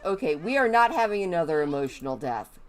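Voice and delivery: loud and fed up, reining in a tantrum; exasperated loud scolding. Real, not acted. Scolding her raging Sim to calm down, loud and exasperated.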